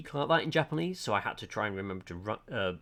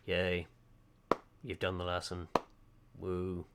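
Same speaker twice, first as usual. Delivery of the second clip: bored, flat-voiced imitation of the purple-haired character; mock unenthused yay, softer; monotone deadpan; 3 semitones lower, 3 dB quieter, slower than usual. Purple-haired character's half-hearted praise, mock deadpan. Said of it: "very monotone in the way she speaks".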